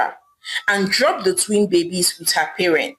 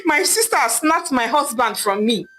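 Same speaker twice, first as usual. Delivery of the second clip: higher, rising cries ending in a loud wail; wailing for help; 5 semitones higher than usual. Acted. Betrayed wife calling for help, wailing high. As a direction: cry out for help as if heartbroken. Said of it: "Idara wailed loudly".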